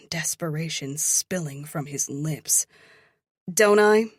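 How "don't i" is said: loud smug retort; a smirk in the voice. A narrator's reading. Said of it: "I smirk".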